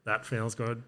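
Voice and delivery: flat robot voice. Pretend. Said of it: "That was my robot voice".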